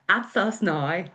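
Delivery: a tentative stab at a Northern Irish accent; Northern Irish accent try. Shown as a demonstration. Showing viewers her attempt, tentative Northern Irish accent. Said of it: "have a wee try".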